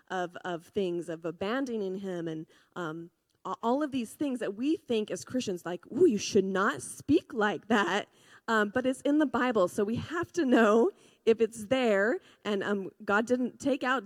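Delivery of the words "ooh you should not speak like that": louder, slow mock scolding; mock disapproval. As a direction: imitate a scandalized churchgoer's reproof. Acts out disapproving Christians.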